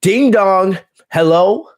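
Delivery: high sing-song ding dong hello; imitating Bayley. Host imitating Bayley's catchphrase, high sing-song. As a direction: chirp it like a doorbell greeting. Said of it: "Bayley's like".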